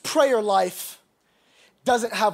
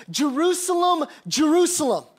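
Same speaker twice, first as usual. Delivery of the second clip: mild crying-out lament, higher pitched; tearful lament; 5 semitones higher than usual. Acted. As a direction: cry out in grief, without real sobs. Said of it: "he's crying tears and he says".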